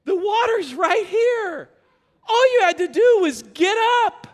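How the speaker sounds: loud, slow, pleading through laughter; laughing exasperated dad. Retold or imitated. Dad telling his son he isn't drowning, laughing. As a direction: reason with him while cracking up. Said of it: "And I said".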